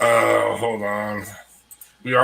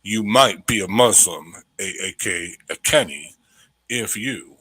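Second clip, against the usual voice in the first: radio voice; 2 semitones lower than usual. Pretend. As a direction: read it like a radio commercial. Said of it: "let me get my radio voice".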